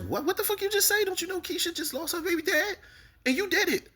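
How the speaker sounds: high, disbelieving mock outrage; outraged mock voice. Reacting to Tiff's line about Keisha, high mock outrage. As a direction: squeal it in shocked disbelief.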